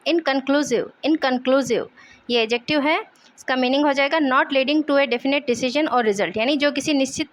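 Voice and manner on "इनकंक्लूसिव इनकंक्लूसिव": इनकंक्लूसिव as in-con-CLOO-siv, falling; dictionary-style इनकंक्लूसिव with a falling end; pronunciation demo. Shown as a demonstration. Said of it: "इसका pronunciation हो जाएगा".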